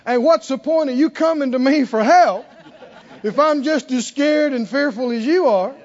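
preaching at full force; preaching loud. Acted. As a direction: drive the point home with force. Preacher building rhetorical point.

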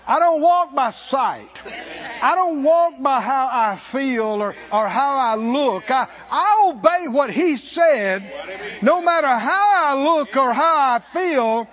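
loud, slow, declaring each phrase; preacher declaring faith over feelings; full-force preaching. Acted. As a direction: proclaim it like a vow before the church.

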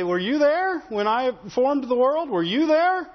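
rising, challenging divine question; a mild mock thunder from God; God's challenge. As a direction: demand it like God questioning Job. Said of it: "he'll sit there and tell you, say".

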